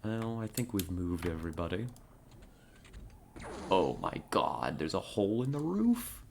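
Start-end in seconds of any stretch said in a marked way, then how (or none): 3.7-6.2 shocked, rising disbelief; surprised. Real, not acted. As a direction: caught off guard, voice jumps up. Sees a hole in the roof.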